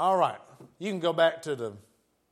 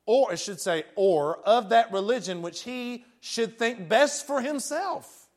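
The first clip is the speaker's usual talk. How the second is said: raised, measured quote reading; formal reading of a decree; 4 semitones higher, 4 dB louder than usual. Acted. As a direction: read it out like an official edict. Reads the edict aloud.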